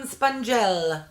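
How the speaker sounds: playful mock-Italian accent, drawn out and loud. Reading out a brand name she loves to say, in an Italian accent. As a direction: stretch it out in a hammed-up Italian accent. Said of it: "pronounce it in an Italian accent".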